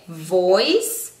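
"voice" with buzzed V, final S. Shown as a demonstration. Teacher modelling the V, "voice" said carefully. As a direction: stretch "voice", V first and hissed S last. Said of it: "con la V".

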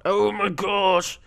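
slow, high, drawn-out cry; big reaction to a game mishap; exasperated exclamation. Real, not acted. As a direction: stretch every word in disbelief.

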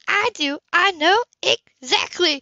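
hurt and firm, lightly voiced; Anna's voice, upset. A narrator's reading. Anna tells Cam she knows, upset woman.

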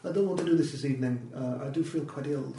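amateur imitation of a Russian accent. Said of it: "best Russian accent. I do apologise".

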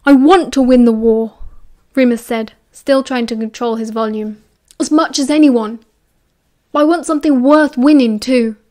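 fighting to keep his volume down; held-back anger. Acted. Remus barely controlling volume.

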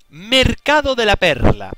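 big slow reveal; announcer-like map reveal. Pretend. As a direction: announce the map slowly and loudly. Reveals the next map's name.

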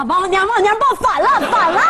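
high urgent cry; alarmed warning. Acted. Warning a man holding the baby wrong, alarmed. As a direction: shriek the correction in a panic.

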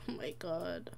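hushed unvoiced whisper; breathy whispered aside. Real, not acted. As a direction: whisper it so he won't wake. Reacting to sleeping Sim.

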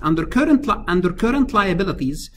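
"current" stressed firmly, repeated for the class; emphasis on "current". Real, not acted. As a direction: hit "current" in "current liabilities". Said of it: "I'm gonna emphasize the word current liabilities".

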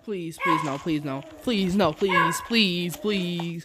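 frantic begging please; anguished denial. Real, not acted. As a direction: plead desperately. Begging while attacked.

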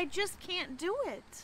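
soft, high, slow admission of failure; sighing. A narrator's reading. Young ghost giving up before the principal, sighing. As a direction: sigh it out slowly. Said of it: "he sighed".

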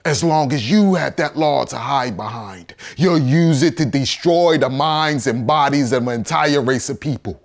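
impassioned courtroom attack; forceful indictment. Acted. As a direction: drive the charge home.

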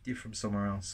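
quoted reaction, pitched well up; imitating surprised listeners. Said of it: "they're like, Oh, really?".

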